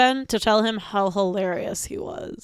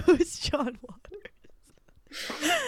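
real whispered aside, slow; 6 semitones higher, 8 dB quieter, much slower than usual. Real, not acted. Actor whispering a quick question to the director, whisper. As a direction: breathe the question out, unvoiced and slow.

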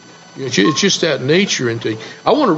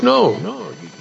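lightly voiced worried frog, pitched up; higher-pitched protest from a storybook frog; frog's refusal; 5 semitones higher than usual. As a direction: refuse as the frog, voice lifting on each no. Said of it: "the frog says".

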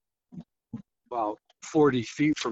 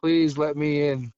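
higher-pitched imitation of a begging woman; mildly voiced plea to be let in; retold pleading; 4 semitones higher than usual. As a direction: voice her desperate plea, understated. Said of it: "And she was saying".

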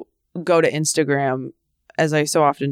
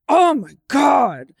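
mock exasperated groan; 8 semitones higher, slower than usual. Retold fury at the sun.

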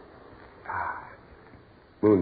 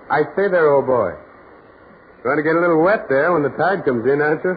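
calling out; 4 dB louder than usual. Acted. Carl calls to distant stranger.

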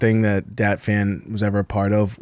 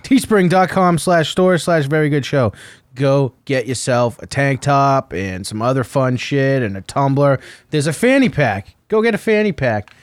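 lightly announced podcast plug; sponsor read; 3 semitones higher than usual. Acted. Host plugging the show's merch store, announcer-style read. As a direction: read out the web address slowly and clearly.

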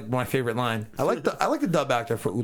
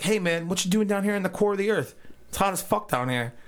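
mocking Beerus; 6 semitones higher than usual. Beerus voiced by host.

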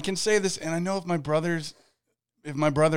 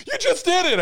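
high, louder put-on teasing voice; mock teasing; 6 dB louder than usual. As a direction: needle your friend for slipping up. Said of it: "you were like".

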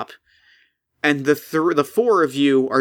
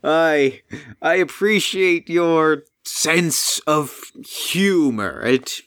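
amused golem; slower than usual. Acted. Golem voice held.

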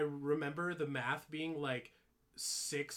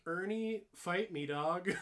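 mock challenge; 4 semitones higher, slower than usual. Teen taunting boss Ernie years later, mock defiant. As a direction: dare him, playfully cocky.

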